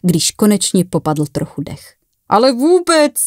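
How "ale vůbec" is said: high, breath-filled amused exclamation; high-pitched, amused denial; fading laughter. A narrator's reading. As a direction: squeeze it out through the tail end of a laugh. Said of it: "v doznívajícím smíchu ze sebe dostal".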